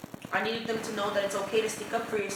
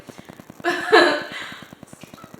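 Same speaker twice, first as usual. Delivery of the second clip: teary breathy laugh; shaky laugh fighting tears; shaky sigh; 5 semitones higher, 5 dB louder than usual. Real, not acted. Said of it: "I'm gonna start crying".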